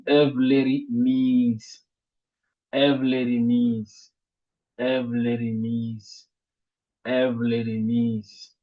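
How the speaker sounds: Evleri mise, slowly, with "mise" held long; slow teacher's demo, stress landing on "mise"; stress on last suffix. Shown as a demonstration. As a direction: draw out and weight the final "mise" in Evleri mise. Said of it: "dernier suffixe maintenant ici".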